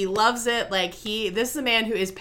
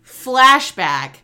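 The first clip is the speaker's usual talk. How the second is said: mock narrator; 3 dB louder than usual. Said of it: "except it's not".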